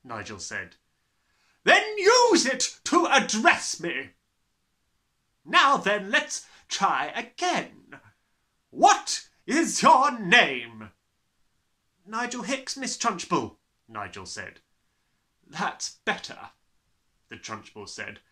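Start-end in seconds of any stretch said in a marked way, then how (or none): 1.6-10.9 slow bellowing. Acted. Trunchbull bellowing demand. 12.1-13.6 put-on boy's voice. Nigel replies. 15.5-16.5 stern headmistress. Acted. Trunchbull grudging.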